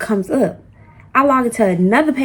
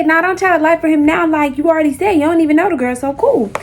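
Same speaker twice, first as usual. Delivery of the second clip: heated retort; 6 semitones higher than usual. Retold or imitated. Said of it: "I say".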